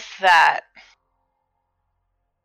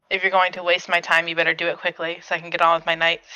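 low-key in-character delivery, slightly lower, hurried at the end; a touch lower, picking up speed into a quick finish; Addison voice; 4 semitones lower, faster than usual. Acted. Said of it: "in my most Addison voice".

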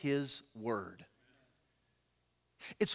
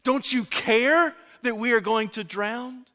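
accusing question; 4 semitones higher, 4 dB louder than usual. Acted. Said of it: "more of a question than a statement".

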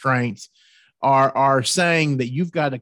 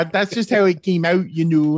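higher, louder put-on Canadian accent; mock Canadian accent; 4 semitones higher, 4 dB louder than usual. Host excusing his botched Ohio voice, mock Canadian accent. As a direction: exaggerate a Canadian accent for a joke. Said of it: "That's Canadian".

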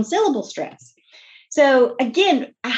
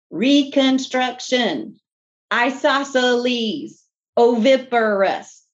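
careful slow pronunciation; slower than usual. Shown as a demonstration. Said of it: "pronounce those really challenging multisyllabic words".

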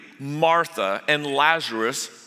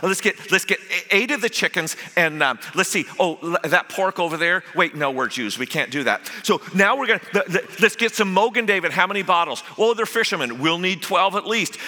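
fussing Martha; 3 semitones higher than usual. Acted. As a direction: rattle off the shopping list in a fluster. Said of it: "she's fussing over everything".

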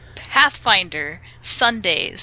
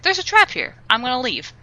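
mocking the dwarf player; 6 semitones higher, faster than usual.

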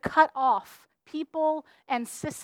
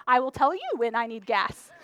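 laughing defiance; 3 semitones lower than usual. Retold or imitated. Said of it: "I say".

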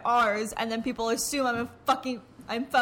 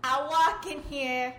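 put-on slow, drawn-out New York accent; 3 semitones higher, slower than usual. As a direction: draw it out like a mock New Yorker. Echoes the New Yorker impression.

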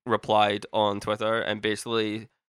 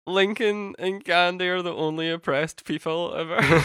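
mocking tone; 8 semitones higher than usual. Mocking the verse.

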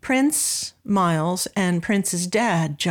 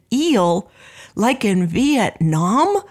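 retold astonishment; 3 dB louder, much slower than usual. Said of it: "It was so astonishing and so marvelous".

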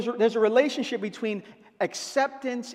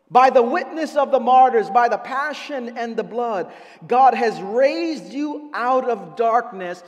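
preached quote of the bishop; 6 dB louder than usual. Retold or imitated. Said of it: "He says".

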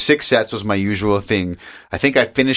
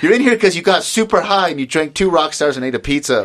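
imitating a fed-up nurse; 7 semitones higher than usual. ER nurse judging a stoned patient, mock exasperated. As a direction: sneer it like an annoyed ER nurse. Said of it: "her face was like".

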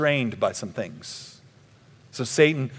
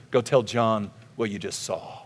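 lower, understated quoted reply; gently measured, pitched down; calm instruction; 4 semitones lower, 4 dB quieter than usual. Acted. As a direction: give a quiet, composed errand. Voicing Jesus's calm answer.

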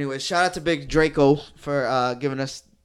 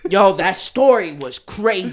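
laughing; 5 semitones higher, 10 dB louder, slower than usual. Real, not acted. Laughing about the story.

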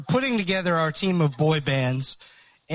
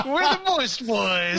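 gleeful declaration; 8 semitones higher, slower than usual. Real, not acted. Gleeful proclamation.

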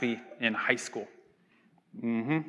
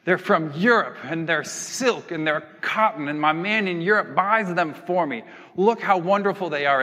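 showy Gatsby; 3 semitones higher than usual. Acted. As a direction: show off each item proudly, lightly acted. Boasting Gatsby flinging shirts at Daisy.

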